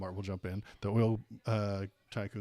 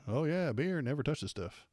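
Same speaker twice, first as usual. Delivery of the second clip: mock high-roading; 3 semitones higher than usual. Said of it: "They'll just high road each other".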